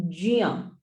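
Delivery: "jia" with a j sound gliding into ya; "jia" as j plus ya, no hard g; correct pronunciation. Shown as a demonstration. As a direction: show the conjunct "jia" on its own. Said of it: "the correct pronunciation".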